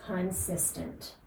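"consistent" said slowly and deliberately, set apart; stress on CONSISTENT. Shown as a demonstration. Coach stressing the key word to listeners, slow deliberate "consistent". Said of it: "stress the word".

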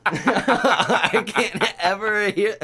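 talking through laughter, high; giggling helplessly; laughing. Real, not acted. Fan still laughing about the tacos line, voice high.

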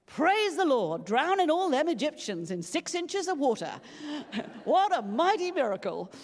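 loud, high African American church shout; African American preacher accent. Retold or imitated. A church member shouts from the back, in an African American accent. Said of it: "Sorry about the accent".

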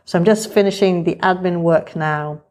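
muffled behind a surgical mask; through a face mask. Real, not acted. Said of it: "You're listening to me talk now with the mask on".

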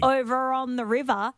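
"over on the river" with the final R softened to "ah"; "river" ending in an open "ah", Australian style; Australian dropped R. Shown as a demonstration. Co-host explaining the accent tip, dropped final R. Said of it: "if we say".

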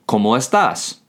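"¿Cómo estás?" with pitch climbing on "estás"; rising question inflection. Shown as a demonstration. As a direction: ask "¿Cómo estás?", voice lifting toward the end. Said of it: "what's called a rising inflection".

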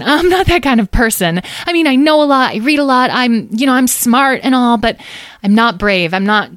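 high, loud protest that falters and sinks; flustered Megan. Acted. Megan tells them she can't come, flustered. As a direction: protest in a fluster, then lose steam. Voices nervous Megan declining.

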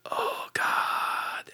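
panicked whisper. Retold or imitated. Panics when caught by dad.

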